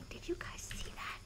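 unvoiced hushed question, fading; almost silent, just breath; whispering. Real, not acted. Whispering to chat about something spotted. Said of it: "I don't know why I'm whispering".

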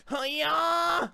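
playful martial-arts yell; battle cry. Pretend. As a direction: shout it like a fighter striking. Attack cry in game.

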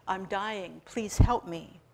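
pushed out through gritted teeth; strained, through clenched teeth. Acted. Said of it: "he pushed out between gritted teeth".

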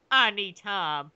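slow, mock-passionate plea; overacted dramatic delivery, slow; dark passion. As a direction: draw it out with hammy intensity. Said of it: "Samus delivered with dark passion".

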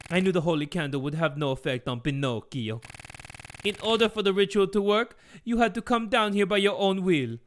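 a hint of an accented villain; scheming father explaining himself; lightly put-on villain father voice; lightly voiced Geppetto.

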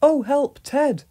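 loud, high alarmed cry; startled. A narrator's reading. Pat grabbed by Ted cries out in alarm. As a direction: yelp in surprise when grabbed.

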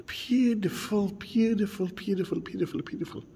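awed whisper. Real, not acted. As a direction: breathe it out in quiet wonder. Admiring flowers on tour.

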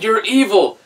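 lightly voiced squinting villain. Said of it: "it's like".

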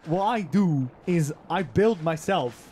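granny voice. Acted. Granny character story.

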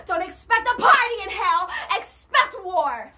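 rhythmic revival sermon cadence; fiery preaching. Acted. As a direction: preach it with building fervor. Preaching to congregation.

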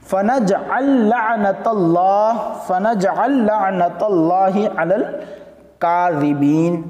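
very slow, stretched melodic recitation; slow Quranic chant with long vowels. Shown as a demonstration. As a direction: draw out every syllable like tilawat. Reciting Quran verse in class.

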